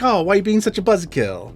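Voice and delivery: lightly voiced put-off guy; mock dismissive complaint. Boyfriend objecting to her refusal to stay, mock dismissive. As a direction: brush her off, mildly whining. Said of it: "And the guy's like".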